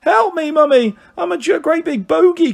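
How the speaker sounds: put-on high, loud tearful boy; hammed-up bawling plea; wailing confession. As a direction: own up in a childish wail. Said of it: "confessed Dick".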